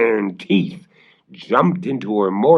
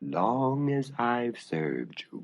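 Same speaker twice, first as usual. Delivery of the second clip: growling dog; 3 semitones higher, 9 dB quieter, slower than usual. Acted. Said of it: "growled the dog".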